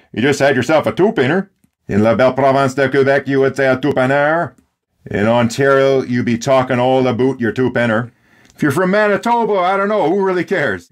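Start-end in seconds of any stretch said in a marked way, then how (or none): 0.1-1.5 put-on quick playful Newfoundland accent. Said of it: "So if you're from Newfoundland". 1.9-4.5 put-on light Quebec French accent on "two-penner". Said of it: "you would say it a little different". 8.5-10.9 dismissive. Retold or imitated. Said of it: "you would say it a little different".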